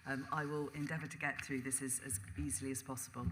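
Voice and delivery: hoarse, croaky throat. Real, not acted. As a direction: speak through a sore throat. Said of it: "got a bit of a croaky voice at the moment".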